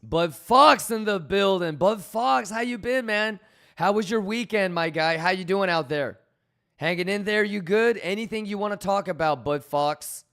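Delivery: loud, buddy-buddy welcome; hyped greeting. Real, not acted. Streamer welcoming a regular viewer, loud and hyped.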